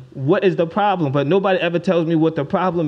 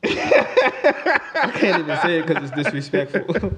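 laughing; much slower than usual. Real, not acted. Cracking up mid-story.

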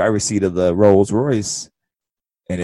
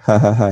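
mock passing laugh; 4 dB louder than usual. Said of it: "passing laugh to make it seem like a joke".

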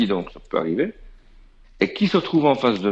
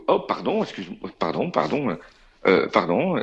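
mildly mortified backtracking; embarrassed apology. Retold or imitated. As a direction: stumble over repeated pardons. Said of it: "il était tout emmerdé".

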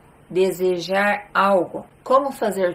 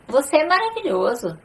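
excited and higher; enthusiastic praise; 6 semitones higher than usual. Shown as a demonstration. Teacher demonstrates excited praise for someone, pitch raised. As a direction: gush with praise. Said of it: "elogiar alguém de uma forma mais empolgante".

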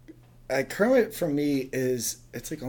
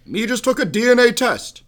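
Obama cadence reading Cookie Monster tweets; 7 semitones higher, 5 dB louder than usual. Pretend. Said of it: "Obama impersonation".

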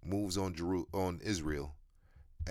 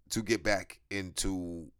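holding back tears. Real, not acted. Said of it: "I'm trying not to cry".

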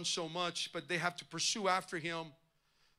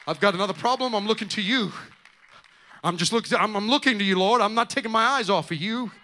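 calling out to the Lord, much louder; loud fervent prayer; 2 semitones higher, 14 dB louder than usual. Acted. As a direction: cry the prayer out with all your strength. Acted prayer at full force.

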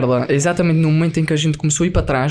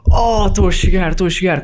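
higher, retold thrill of nearly being home; excited arrival; 3 semitones higher than usual. Passenger spotting his island from the plane, excited. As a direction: act out the eager homecoming.

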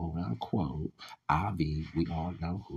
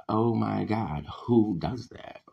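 loud, appalled retort; exasperated outcry; 2 semitones higher, 5 dB louder, slower than usual. Retold or imitated. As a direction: re-enact a loud, indignant reaction. Acting out own shocked reaction.

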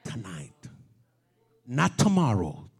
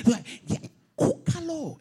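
breathy then higher teasing call; teasing whisper; 13 semitones higher than usual. Pretend. The preacher teasing the congregation, higher. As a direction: tease them into it.

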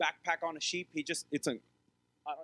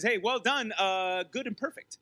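wrong quote; 2 semitones higher, 3 dB louder than usual. Shown as a demonstration. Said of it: "No, he didn't say that".

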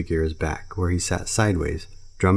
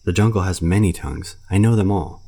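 showing off; 2 semitones higher, 5 dB louder than usual. Acted. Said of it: "delighted to show off".

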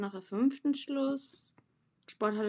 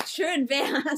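halb lachend; 4 semitones higher, 4 dB louder than usual. Real, not acted. Lacht fast weinend.

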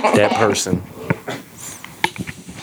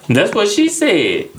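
drawn-out punchline; 11 semitones higher, much slower than usual. Pretend. Joke punchline.

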